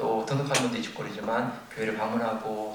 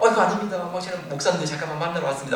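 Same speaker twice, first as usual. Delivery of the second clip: flustered apology; 6 semitones higher, 7 dB louder, faster than usual. Retold or imitated. Pastor flustered, bowing before prisoner.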